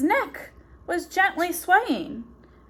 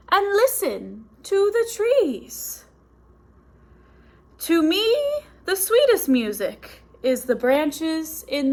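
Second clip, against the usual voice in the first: gentle; 4 semitones higher than usual. Acted. Cricket speaks gently.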